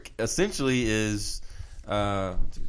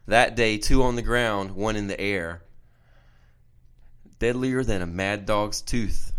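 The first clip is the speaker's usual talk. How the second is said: limerick recitation; 3 dB louder than usual. Acted. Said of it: "I wrote it down".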